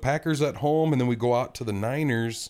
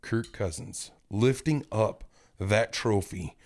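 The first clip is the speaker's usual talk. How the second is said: guided visualization; 3 semitones lower than usual. Pretend. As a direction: talk them into picturing it. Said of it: "close your eyes".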